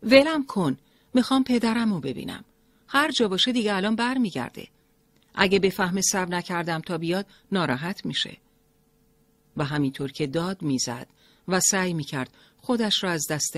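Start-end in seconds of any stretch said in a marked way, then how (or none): 0.0-8.4 high, loud desperate protest; loud cry. A narrator's reading. Mariam struggling against the driver, desperate shout. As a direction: yell to break free. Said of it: "بلند فریاد زد".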